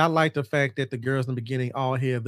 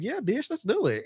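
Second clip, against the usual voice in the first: higher, fired-up yell of yes; rally the crew; hyped agreement; 8 semitones higher than usual. Retold or imitated. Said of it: "they were all like".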